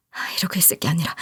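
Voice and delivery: fast, hushed whisper; whispered aside. Acted. A wife whispering to herself before apologizing. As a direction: mutter it under your breath.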